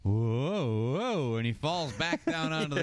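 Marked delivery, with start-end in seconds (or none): 0.0-1.3 woozy mock whoa. Acting man rising and falling back.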